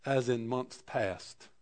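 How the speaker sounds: Job, remembering better days, wistfully; wistful longing. Retold or imitated. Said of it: "He says".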